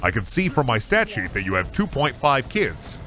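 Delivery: low, smooth telemarketer pitch voice; car warranty salesman. Pretend. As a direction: sell him the warranty like a slick salesman. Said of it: "sound like you're about to sell me an extended warranty".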